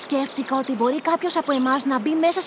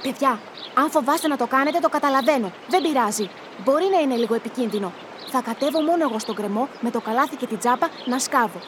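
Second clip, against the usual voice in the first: lower, gentle and understanding; calm reassurance; 4 semitones lower than usual. Acted. Reassures frightened friends, volunteers. (ήρεμος, καθησυχαστικός τόνος)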